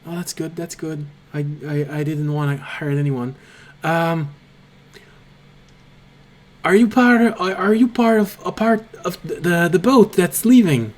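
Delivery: lightly voiced kobold, relieved then eager; a hint of a jittery little creature, rising as it asks; a touch of an anxious small stowaway; nervous kobold. GM voicing kobold to player.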